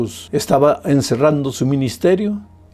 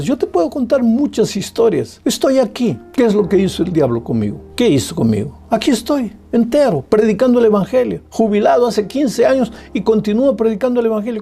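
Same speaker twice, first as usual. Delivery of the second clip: high, fast, ringing sermon; fiery preaching; 9 semitones higher than usual. Acted. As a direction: proclaim it to the whole church. Preaching at full force.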